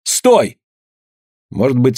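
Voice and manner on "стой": sharp high shout; Anna shouting at the fleeing man, high sharp cry; shouted stop. A narrator's reading. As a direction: fling the word at him, much higher. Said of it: "с криком бросилась к нему".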